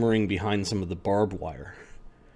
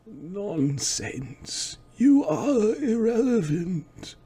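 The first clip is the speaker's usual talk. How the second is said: high, slow dismissive villain; theatrical villain voice; 11 semitones higher, 3 dB quieter, much slower than usual. Acted. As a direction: sneer it down from on high. Second figure answers the ghost.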